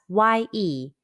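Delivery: "ye" held long and level; prolonged ye. Shown as a demonstration. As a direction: draw out "ye" as a pronunciation model. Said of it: "and pronounced ye".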